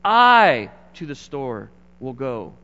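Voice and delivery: slow emphatic reading of scrambled words; slow Greek-order line. Retold or imitated. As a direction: spell out the odd order slowly. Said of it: "Or he would say".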